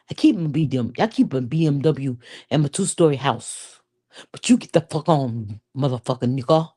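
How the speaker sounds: lightly put-on African accent; a mildly done African accent, mock telling-off; best African accent. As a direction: play the angry wife in a rough African accent. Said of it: "let me get my best accent".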